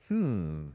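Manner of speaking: thinking hum. Shown as a demonstration. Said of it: "I can do a few".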